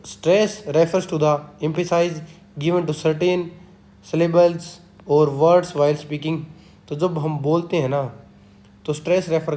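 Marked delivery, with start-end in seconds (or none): 0.1-6.4 each word spaced out, very slow and deliberate; slow dictation reading. Shown as a demonstration. Teacher reading a definition to students, slow dictation. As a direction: read it out like dictating notes to a class.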